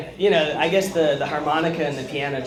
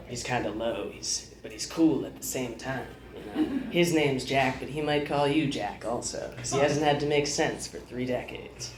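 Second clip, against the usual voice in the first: Jack Nicholson impression; 2 semitones lower, 5 dB quieter than usual. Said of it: "I'll start with Jack Nicholson".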